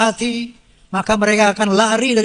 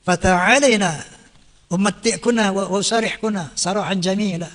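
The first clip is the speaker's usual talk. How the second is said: Quranic recitation; 2 semitones lower than usual. Acted. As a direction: intone the verse like in prayer. (lantunan ayat Al-Quran)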